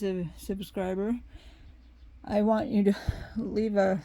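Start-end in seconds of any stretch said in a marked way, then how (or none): 3.4-4.0 out of breath, words cut short; catching breath midword. Real, not acted. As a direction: runs out of air mid-phrase. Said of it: "sorry, I lost my breath for a minute".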